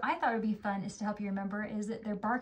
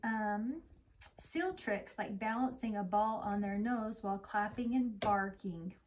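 slow storybook narration; gentle read-aloud; story reading; slower than usual. Acted. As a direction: read it slowly to a young child. Reads story to child.

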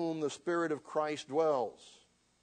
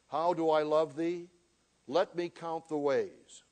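poem reading; 3 dB louder than usual. Acted. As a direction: read it like a love poem, savoring each line. Reads love poem aloud in sermon.

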